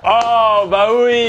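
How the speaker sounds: high exclamation of recognition; real high-pitched realization; sudden realization. Real, not acted.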